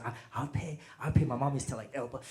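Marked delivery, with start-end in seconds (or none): 0.0-1.2 soft offer at the check; polite offer to pay. Retold or imitated. Parents at dinner reaching for the check, soft offer. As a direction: offer softly, stammering slightly. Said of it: "your parents".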